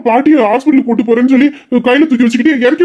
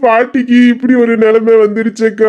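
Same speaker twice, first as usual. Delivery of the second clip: slow hammed-up lament with a sob; mock wailing; slower than usual. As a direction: wail melodramatically to the sister. Wailing to sister about grandma. (அக்காவிடம் மிகைப்படுத்திய போலி அழுகை)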